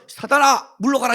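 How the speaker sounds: mock exorcism. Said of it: "이러고 싶은 거예요".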